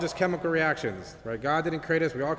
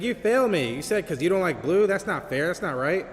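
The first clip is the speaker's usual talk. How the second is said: raised, higher voice of an indignant student; wronged student complaining to his professor, raised voice; upset student; 3 semitones higher, 4 dB louder than usual. Retold or imitated. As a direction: protest the failing grade, louder and higher. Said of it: "the student is mad".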